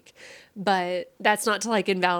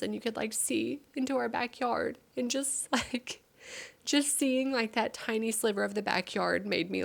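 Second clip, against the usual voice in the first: high, teary voice breaking up through tears; choked-up crying while describing the backyard; 4 semitones higher than usual. Real, not acted. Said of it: "I am sorry for crying on the internet".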